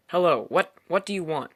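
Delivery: flapt het er luid en gespannen uit; blurted out. Acted. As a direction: scherp en harder, met een hogere toon. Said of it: "I blurted out".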